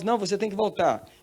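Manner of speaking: high, firm acted order; insistent command. Heavenly voice refusing the woman's plea, high insistent command.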